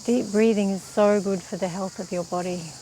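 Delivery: calm, even-toned meditation teacher; unhurried meditation instruction, leaving space to breathe; guided meditation. Real, not acted. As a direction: guide them gently through breath practice, with long pauses.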